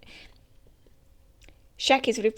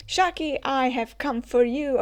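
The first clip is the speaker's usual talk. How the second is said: dramatic entrance call; 5 semitones higher, 3 dB louder than usual. Acted. Rox arrives calling to Shaki.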